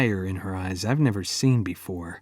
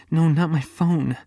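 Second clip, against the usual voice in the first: sharp, higher exasperated snap; 6 semitones higher than usual. A narrator's reading. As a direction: bite back at him, fed up. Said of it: "she snaps, exasperated".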